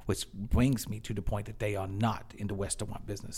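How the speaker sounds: measured little lecture, r's and l's softened to w's; imitated cashier. Cashier explaining real estate to a customer, imitated. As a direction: mimic a clerk proudly making his point. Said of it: "He said".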